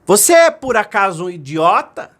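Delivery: put-on boy getting angry at the voice; irritated. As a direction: snap it at the mountain. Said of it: "ele se irritou e disse assim".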